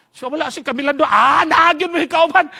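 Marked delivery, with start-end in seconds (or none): 1.1-2.5 loud slow demanding question; spring the question to startle; teacher startling. Retold or imitated. Teacher interrogating. (kusog nga pangutana sa maestro)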